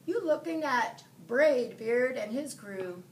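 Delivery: put-on captain recruiting the boy, loud pirate voice. A narrator's reading. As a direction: boom it out like a captain.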